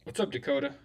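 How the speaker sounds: robotic, glitchy mic sound. Real, not acted. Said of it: "Why do I sound like a robot?".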